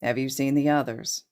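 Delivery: low, ominous question. Acted. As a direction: ask it darkly, with menace. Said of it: "he says ominously".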